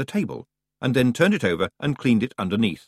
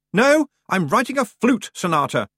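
high, louder sarcastic shout; 12 semitones higher, 5 dB louder than usual. A narrator's reading. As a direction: yell it back through the door. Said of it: "shouted Roland".

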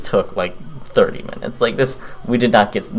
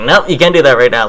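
raised voice, shutting it down; loud firm refusal; 5 semitones higher, 10 dB louder than usual. Retold or imitated. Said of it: "I'm like".

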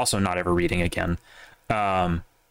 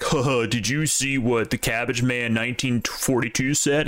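mocking a clueless poster; 2 semitones higher than usual. Mocking a Twitter-bot guy to his podcast friends, lightly put-on voice. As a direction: imitate a gossip-hungry nobody asking a dumb question. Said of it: "being the guy who's like".

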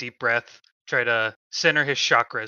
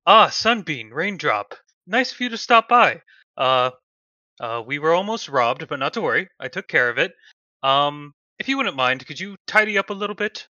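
higher, louder polite gentleman; Pontingo's voice; 4 semitones higher, 5 dB louder than usual. Acted. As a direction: calmly reassure the staff.

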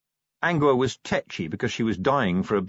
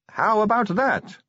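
higher, slow, drawn-out teasing voice; sly tease; 11 semitones higher, slower than usual. Acted. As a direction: lean in and draw it out knowingly. Sally teasing Tawny.

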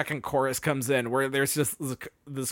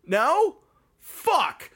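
put-on Valley Girl; 7 semitones higher, 3 dB louder than usual. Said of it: "she's like".

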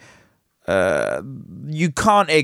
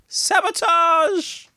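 high, slow, hammed-up "Sabotage!" savoured with every syllable; relishing the word; slower than usual. Host savouring a favourite word in a slow hammed-up exclamation. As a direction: roll "Sabotage!" out like a villain. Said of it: "Love that. That's a great word".

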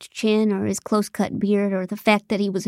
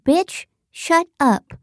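slow, much higher, drawn-out snarl; snarling Tasha; 9 semitones higher, much slower than usual. Acted. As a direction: spit it out slowly, way up high. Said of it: "And then Tasha said".

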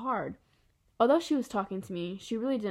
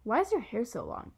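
mildly irritated question; annoyed; 3 semitones higher than usual. Acted. Julian questions August about his hair, annoyed. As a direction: ask with a touch of annoyance. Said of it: "He sounded like he was annoyed".

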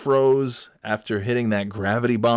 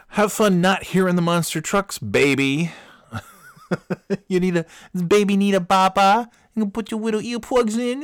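put-on high, taunting, sing-song baby talk; mocking baby talk; 9 semitones higher, 4 dB louder than usual. Boy mocking his earplugged classmate: high, taunting baby talk. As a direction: coo at him like a scornful big kid.

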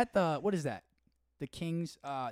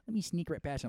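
higher imitated Michigan voice; Michigan accent; 4 semitones higher than usual. Imitating somebody overheard, Michigan accent. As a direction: mimic a Michigander squeezing past. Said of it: "Michigan accent".

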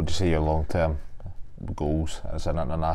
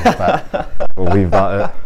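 laughing; 12 semitones higher, 12 dB louder, much slower than usual. Real, not acted. Teasing joke about pricey Merc.

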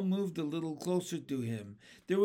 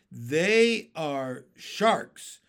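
very slow, loud alarmed cry; 7 dB louder, much slower than usual. A narrator's reading. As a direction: drag it out in alarm. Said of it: "cried the earthworm".

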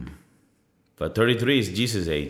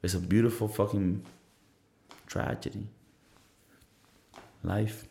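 softer, fading into a whisper on tragedy; dramatic hush; 8 dB quieter than usual. Real, not acted. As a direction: let the last word die into breath. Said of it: "lacking a lot of emotions to really convey".

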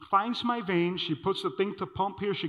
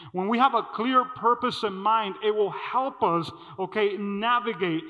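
preaching emphasis; 2 semitones higher, 4 dB louder than usual. Shown as a demonstration.

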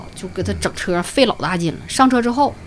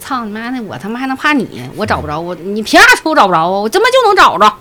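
stubborn angry retort; 2 semitones higher, 5 dB louder than usual. Retold or imitated. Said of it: "犟劲就上来".

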